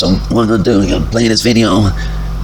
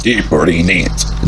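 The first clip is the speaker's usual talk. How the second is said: slow, low try at a British accent; amateur British accent, said slowly; attempted British accent; 3 semitones lower, slower than usual. Shown as a demonstration. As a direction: have a go at a British accent, drawing it out. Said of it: "Oh, I'm gonna try it".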